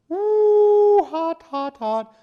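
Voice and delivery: high yelps from a burning bite; gasping hot hot hot; burning mouth. Real, not acted. Bit into hot mushroom.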